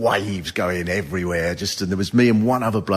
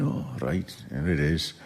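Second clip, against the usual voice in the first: calm; 6 semitones lower, 9 dB quieter than usual. Retold or imitated. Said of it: "they're just calm, going".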